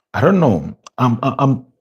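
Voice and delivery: talking through a yawn; words stretched by a big yawn. Real, not acted. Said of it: "apologies on the yawning".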